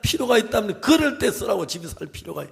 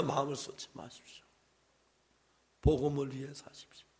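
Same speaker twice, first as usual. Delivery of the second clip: whisper; 5 semitones lower, 16 dB quieter than usual. Acted. Preacher drops to hushed plea.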